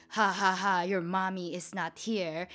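imitating a taunting stepdad, with a spoken fake laugh; mock laugh, then a sneering retold taunt. Stepdad taunts the child about the missing mom, mocking.

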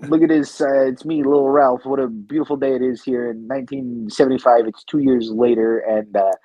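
lightly voiced schoolkid; a hint of a kid character, drawing out the punchline; Lil Ralph. Son mocking his dad as a child, lightly put-on kid voice. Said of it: "I do a character called Lil Ralph".

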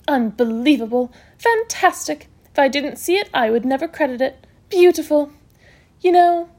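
emphatic, high exclamations of delight; brisk matron, amazed. Acted. Matron examining healed wounds, amazed. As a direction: marvel at each discovery.

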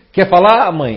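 high, loud prying mother; mother asking. Retold or imitated. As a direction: call out like a nosy mom. Acted mother-child quote.

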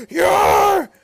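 very loud, hammed-up shout; mock overwhelmed bellow. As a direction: bellow it as a boss overcome with excitement. Acted boss falls backwards, overwhelmed.

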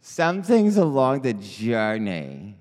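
put-on loud Brooklyn Jewish mother accent. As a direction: slip into a Brooklyn mother's voice, loudly. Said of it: "I don't know why I turned into a Jewish mother from Brooklyn".

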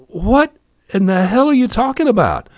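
high, loud disbelieving outburst; can't believe what he's hearing; incredulous dad. Retold or imitated. Father on the phone to his daughter, high loud disbelief.

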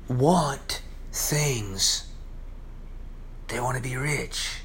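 breathy whispered aside. Real, not acted. Preacher whispering to his congregation about desire. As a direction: drop to a whisper. Sermon building on wanting.

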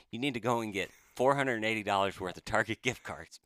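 words breaking into real laughter; laughing while retelling. Real, not acted. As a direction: laugh through the absurd gift card demand. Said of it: "I can't believe I'm saying this".

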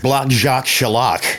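lightly voiced cartoon name, drawn out slowly; a hint of hammy cartoon bad guy; cartoon French-Canadian villain. Quoting a Bugs Bunny cartoon, lightly hammed-up villain. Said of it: "Like Yosemite Sam in the Bugs Bunny commercial".

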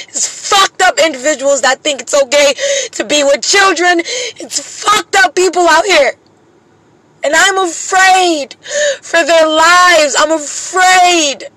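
fighting back real crying as the fear spills out; voice breaking. Real, not acted. Mother breaks down over her kids' safety.

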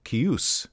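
the band name leaning on the second syllable; kee-OOS for the name; second-syllable stress. Shown as a demonstration. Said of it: "emphasis on the second syllable".

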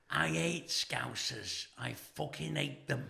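slow, soft acted threat; hushed hostility, retold; quiet menace. Acts out a hostile stranger's threat.

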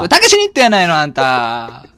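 nagging Osaka mum voice; loud nosy Osaka auntie. Acted. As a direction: scold him like a pushy Kansai mother. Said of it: "なんでババアのままなの？".

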